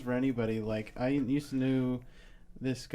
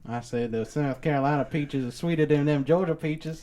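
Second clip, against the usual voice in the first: hammed-up old South boast; mock-proud Southern accent; antebellum Southern accent; 2 semitones higher, 3 dB louder than usual. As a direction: argue it in a theatrical Southern accent. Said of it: "that's like an antebellum South accent".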